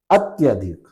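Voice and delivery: अत्यधिक with short अ after त्य; अत्यधिक, short vowel, as the right answer; correct form. Shown as a demonstration. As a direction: say अत्यधिक crisply, no long आ. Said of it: "ये सही होगा".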